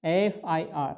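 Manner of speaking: एफआईआर said carefully, opening on an ए sound. Shown as a demonstration. Teacher to students, sounding out the vowel start. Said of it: "एफआईआर का उच्चारण करके देखें तो क्या आएगा".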